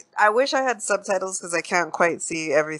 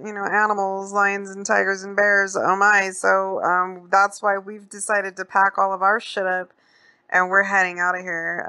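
put-on higher-pitched, agreeable old man; old dude; 5 semitones higher than usual. Old dude smoothing things over with the stranger, high old-man voice. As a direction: play the old man placating in a raised voice. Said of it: "the old dude jumps in".

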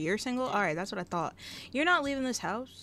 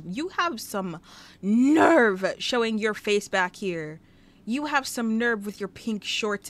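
slow and louder, dragging the scold out; mock scolding; 6 dB louder, slower than usual. Scolding the robber who returned, slow and loud. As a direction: shame him for coming back.

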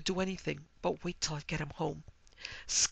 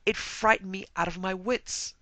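higher, distraught protest with pauses; sobbed complaint; 4 semitones higher, 6 dB louder than usual. Acted. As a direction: pour out an acted tearful grievance. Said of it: "she sobbed".

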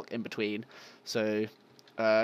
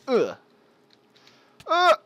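grunt; 8 dB louder than usual. Real, not acted. Effort noises while playing.

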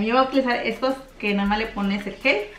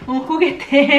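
laughing; 4 semitones higher, 6 dB louder, much slower than usual. Real, not acted. Laughs mid intro.

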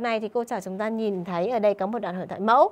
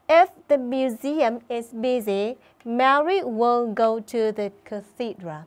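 slow, clear model sentence for pupils; model reading; much slower than usual. Shown as a demonstration. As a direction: read it slowly so the class can copy.

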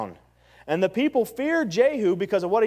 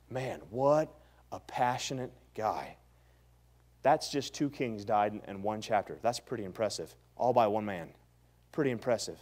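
hushed awe; 8 semitones lower, 7 dB quieter than usual. Real, not acted. Hushed awed aside after the story.

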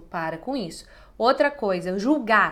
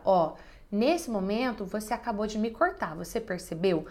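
calm assertive; 4 dB quieter than usual. Shown as a demonstration. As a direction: point it out gently but firmly. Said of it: "com uma comunicação assertiva e não agressiva".

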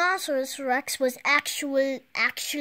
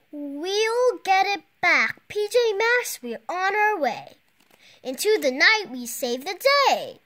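heroic rallying; 6 semitones higher, 4 dB louder than usual. Acted. Hero team chant.

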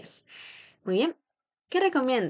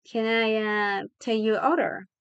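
hesitant waiter taking an order; a bit hesitant. Shown as a demonstration. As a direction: pause on "uh" before finishing. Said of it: "como que un poco dudando".

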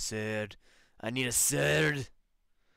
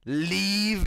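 a louder, higher repeated "Leave."; louder command; 7 semitones higher, 7 dB louder than usual. Acted. Gamer repeating an order to exit, louder. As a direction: snap "Leave." louder the second time. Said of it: "Leave. Leave".

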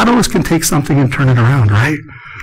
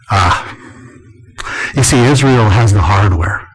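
soft-spoken imitation; 3 semitones lower than usual. Pastor answering the speaker's question, a lightly imitated soft voice. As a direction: answer gently like the mild pastor. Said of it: "he was very soft-spoken".

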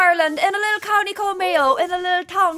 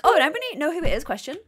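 quick southern-accented query, then a lower "question"; 3 semitones lower, much faster than usual. Shown as a demonstration. Player demonstrating a Lexi act, southern accent. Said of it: "I'm just gonna do a southern accent".

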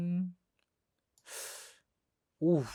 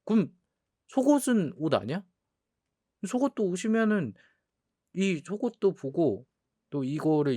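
rising, louder playful outrage; mock indignation; 4 semitones higher, 3 dB louder than usual. Real, not acted. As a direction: argue your innocence theatrically. Defending himself, mock outrage. (장난스러운 억울함)

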